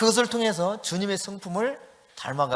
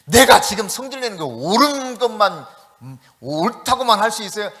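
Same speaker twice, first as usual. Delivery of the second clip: acted indignant retort, somewhat louder; 2 semitones higher, 5 dB louder than usual. Jonah arguing back at God, indignant. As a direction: argue back hotly, stretching the key word. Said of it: "막 이렇게 핏대를 올리면서".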